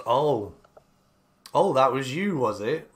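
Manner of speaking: mild, doubting sarcasm; a little sarcastic. Acted. Keeper doubting Nook's boast, mildly sarcastic. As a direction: let a touch of mock surprise in. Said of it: "he says it a little bit sarcastically".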